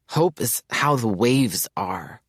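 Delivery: slow, lovestruck musing; dreamy reverie. Acted. Mayers gazing at the sea describing Hope, slow and dreamy. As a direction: gaze out and drift into the words.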